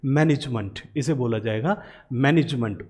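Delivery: मैनेजमेंट ending in a short "munt"; management pronunciation. Shown as a demonstration. Teacher modelling the word for students: मैनेजमेंट ending in munt. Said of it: "इसे कैसे बोलेंगे".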